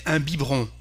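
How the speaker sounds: "biberon" in two syllables, "bee-bron"; silent middle E. Shown as a demonstration. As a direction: drop the E inside "biberon". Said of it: "we don't pronounce it".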